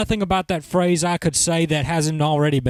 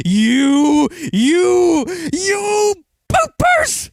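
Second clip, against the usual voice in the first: put-on cranky old man yelling, higher and louder; old man scolding; 10 semitones higher, 4 dB louder, much slower than usual. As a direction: wag a finger and shout like a grumpy old man. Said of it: "I see an old man sticking his finger out".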